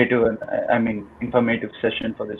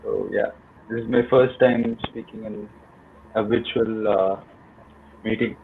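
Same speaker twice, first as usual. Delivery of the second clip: shaky, nervous first-time speaker; 4 dB quieter than usual. Real, not acted. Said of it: "I'm a bit nervous".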